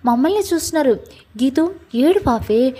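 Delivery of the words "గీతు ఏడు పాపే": drawn-out coaxing plea, "ఏడు పాపే" stretched slowly; slow pleading. Acted. Jai coaxes crying Geetu on the street, slow and pleading.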